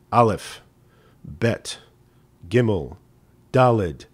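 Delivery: mild mock fervor, letter by letter; fervent recitation. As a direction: call out each letter to heaven, half earnest. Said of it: "reciting the Hebrew alphabet with great fervor".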